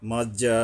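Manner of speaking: মা যা with a very long final aa; four-alif elongation. Shown as a demonstration. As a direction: hold the end of যা on a level note. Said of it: "চারি আলিফ যেহেতু টান আছে". (যা লম্বা টেনে পড়া)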